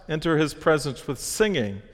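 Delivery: "singing" lifted for emphasis; exclamatory emphasis. Shown as a demonstration. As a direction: read it as an exclamation, leaning on "singing". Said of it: "we're supposed to provide emphasis".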